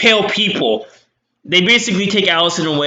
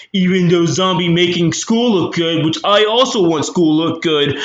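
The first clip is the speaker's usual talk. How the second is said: dim caveman voice. Retold or imitated. Mocking Buck as dim-witted.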